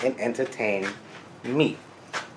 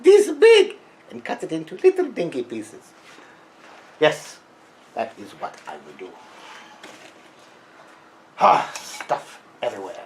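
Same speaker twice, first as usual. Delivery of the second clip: put-on Freudian accent. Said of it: "this crazy Freudian accent".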